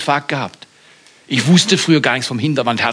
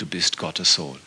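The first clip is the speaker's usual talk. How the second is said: reverent confession; 6 semitones lower, 6 dB quieter than usual. Acted. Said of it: "warfen sich vor ihm nieder und sprachen".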